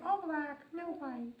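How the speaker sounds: high little puppy voice; playful high pet voice; speaking for puppy. Pretend. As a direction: pitch it up as the puppy talking.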